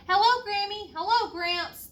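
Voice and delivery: loud, high happy calls; shouted greeting. Acted. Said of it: "the Comfort's daughter shouted".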